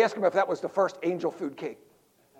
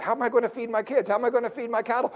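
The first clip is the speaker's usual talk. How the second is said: fretting Israelites; 5 semitones higher, 3 dB louder, faster than usual. Retold or imitated. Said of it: "That's what they're looking".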